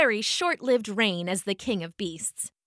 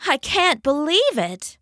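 purring; 3 semitones higher than usual. Acted. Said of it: "purred the tiger".

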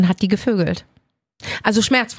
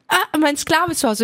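friend quoted; 6 semitones higher than usual. Retold or imitated. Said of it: "ich so".

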